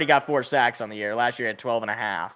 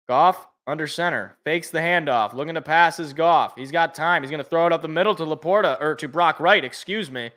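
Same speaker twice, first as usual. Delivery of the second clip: play-by-play; 2 semitones higher than usual. Acted. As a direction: narrate the play live like a TV announcer. Live call of a pass play.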